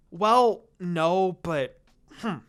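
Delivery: reluctant, trailing whine; whining. A narrator's reading. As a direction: give in grudgingly. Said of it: "Sakura whined".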